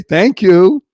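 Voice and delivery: cheerful thanks despite the wait; emphatic thank you. Pretend. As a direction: thank them warmly anyway. Late coffee, still thanks.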